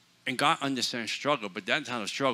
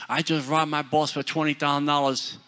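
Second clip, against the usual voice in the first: laughing retelling; 2 semitones higher, 5 dB louder than usual. Retold or imitated. Girl's confession, laughing.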